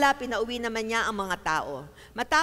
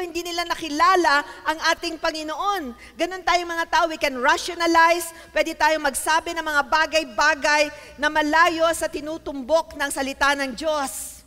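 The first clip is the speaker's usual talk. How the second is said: raised, emphatic preaching voice; forceful preaching; 4 semitones higher, 5 dB louder than usual. Real, not acted. Preacher warning people about rationalizing, preaching forcefully. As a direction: drive the point home to the congregation.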